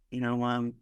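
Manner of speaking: said casually, without the sobbing; understated, matter-of-fact retelling. Retold or imitated. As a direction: toss it off casually. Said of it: "me saying it now, like, so casual".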